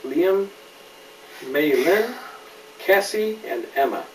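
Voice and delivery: clear, lively storybook reading; gentle picture-book narration; reading to a child. A narrator's reading. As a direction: read it to a little one, naming each friend. Reads picture book aloud.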